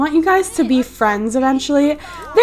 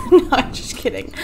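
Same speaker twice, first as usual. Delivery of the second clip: laughing. Real, not acted. Laughs at own joke.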